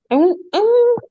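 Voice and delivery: high, loud laughing denial; laughing protest. Real, not acted. Laughing denial to the interviewer's question.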